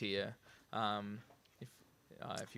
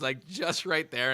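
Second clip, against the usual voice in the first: ordinary talk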